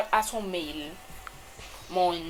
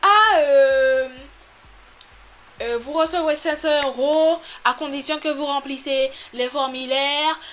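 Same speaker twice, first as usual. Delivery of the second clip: mock scammer voice; 5 semitones higher, 6 dB louder than usual. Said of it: "La personne qui dit".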